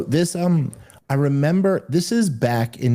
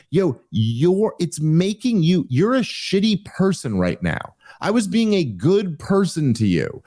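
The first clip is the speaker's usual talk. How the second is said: mildly indignant, pitched up; indignant rebuke; 5 semitones higher than usual. Retold or imitated. Man rebuking the woman he tried to comfort, mildly indignant. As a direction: tell them off, voice raised in pitch.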